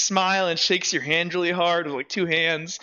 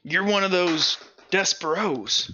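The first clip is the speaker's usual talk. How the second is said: big guy, taken aback; 3 semitones higher than usual. Acted. Big guy recognizing the insignia, lightly voiced disbelief. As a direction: size up the stranger, then demand answers.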